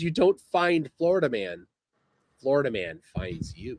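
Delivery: ordinary delivery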